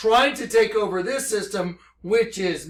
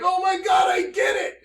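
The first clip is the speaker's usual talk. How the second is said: high, shouted overjoyed realization; freaking out; 11 semitones higher than usual. Retold or imitated. Telling Corey on the phone, high shouted excitement. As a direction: cry out the revelation in shock. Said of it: "just freaking out".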